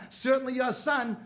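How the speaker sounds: high, loud teasing mother; mocking mother. Mother teases the father, high and loud. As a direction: jab at the husband. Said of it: "She goes".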